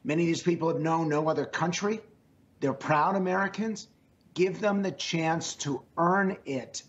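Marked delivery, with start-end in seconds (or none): 4.3-6.8 "earn" drawn out with weight; slow down and lean on "earn"; stress on earn. Real, not acted. Pollster pleading for the Dreamers, stressing "earn". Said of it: "I emphasize that word".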